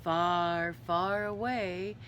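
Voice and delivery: lingering storybook read-aloud; story narration. A narrator's reading. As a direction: carry the listeners off into the tale.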